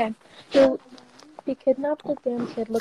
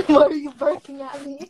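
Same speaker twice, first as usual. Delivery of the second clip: laughing; 2 semitones higher, 3 dB louder than usual. Retold or imitated.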